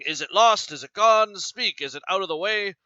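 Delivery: reading Othello's furious demands aloud; mock yell. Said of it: "yelling at her".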